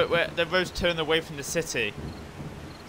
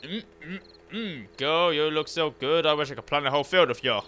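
cheesy pickup line; 2 semitones higher than usual. Pretend. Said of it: "I'm not very good at pickup lines".

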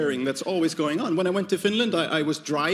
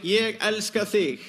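slow, careful Icelandic "Ég elska þig"; Icelandic phrase; 3 semitones higher, slower than usual. Shown as a demonstration. Icelandic, said slowly. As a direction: says Icelandic "I love you" to the crowd, slow and careful. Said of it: "in Icelandic".

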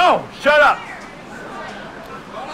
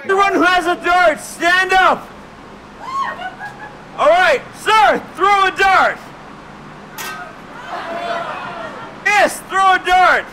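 calling out; 4 semitones higher than usual. Real, not acted. Calling out to audience.

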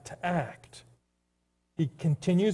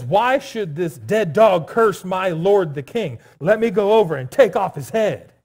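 loud, indignant Abishai demanding to act; angry outrage; 6 dB louder than usual. Acted. Nephew defending his cursed king, angry and loud. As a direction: call it out forcefully in loyal outrage. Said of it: "he was so compassionately angry".

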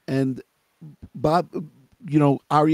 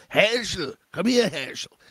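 put-on a light, higher Yiddish-accented call; 4 semitones higher than usual. Grandmother calling her husband Herschel, light Yiddish accent. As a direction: call him over with a hint of a Yiddish accent. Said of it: "She spoke with a Yiddish accent".

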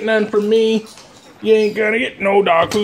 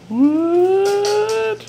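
surprised what; 12 semitones higher than usual. Real, not acted. Sudden high disbelief.

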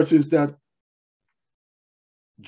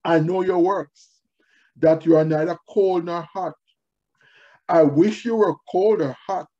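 measured, emphatic proclamation in phrases; scripture reading; 2 semitones higher, 3 dB louder than usual. Acted. Preacher reading the letter to Laodicea, solemnly declaimed. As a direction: read it out firmly, pausing between phrases.

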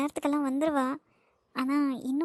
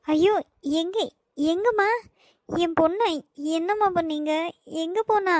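panicked; 2 semitones higher than usual. Acted. Mother panics over missing daughter.

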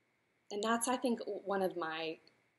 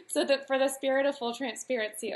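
laughing; 7 semitones higher, 6 dB louder than usual. Real, not acted. Laughing while explaining.

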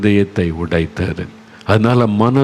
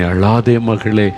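slow tender comfort; much slower than usual. Retold or imitated. Jesus comforting a grieving daughter, slow and tender. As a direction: ease a grieving daughter slowly. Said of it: "என்று உங்களை பார்த்து சொல்லுகிறார்".

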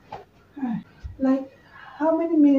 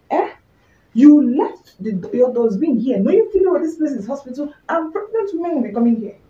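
angry patient; 3 dB louder than usual. Acted. Angry pregnant woman scolding nurse.

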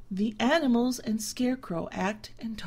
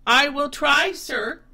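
higher, eager humble reply; a goat trying to please; polite humbled goat; meek goat; 6 semitones higher, 9 dB louder than usual. A narrator's reading.

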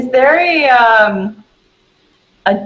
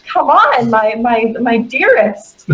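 hurrying companion; 3 semitones higher, slower than usual. Acted. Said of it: "You have to hurry up".

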